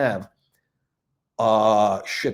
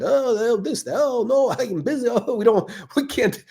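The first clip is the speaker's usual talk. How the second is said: higher, whiny mock of lazy clerks' excuses; mocking store staff; 9 semitones higher than usual. Vlogger mocks the Rolex store staff, higher whiny mock excuses. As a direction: parrot the staff's excuses in a higher, put-upon voice.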